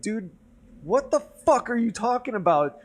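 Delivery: sharp, high mock yell at a teammate; retold angry outburst. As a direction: throw it back at him, fed up. Retold shouting match with teammate.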